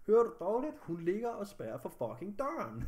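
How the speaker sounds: exasperated, emphatic retelling of a snappish reply; irritated retort. Retold or imitated. Speaker retells arguing with the emergency operator, irritated retort. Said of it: "jeg bliver så hurtigt sur".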